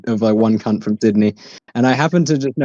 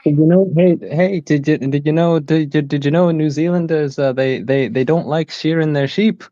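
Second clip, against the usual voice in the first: put-on Kiwi accent; 2 semitones higher than usual. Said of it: "I can sort of do a Kiwi accent".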